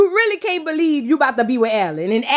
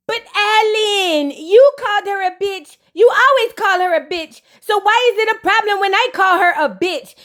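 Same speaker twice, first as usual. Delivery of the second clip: lightly voiced petulant girlfriend; mock whiny protest; 6 semitones higher than usual. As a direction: whine back at him like a wronged girlfriend. Imitating Flo's indignant reply.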